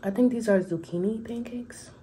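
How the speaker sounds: soft unvoiced whisper. Real, not acted. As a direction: whisper it to yourself. Whispering while eating.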